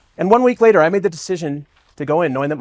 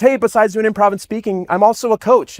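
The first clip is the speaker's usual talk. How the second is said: teacher's voice; 7 semitones higher than usual. Retold or imitated. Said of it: "she goes".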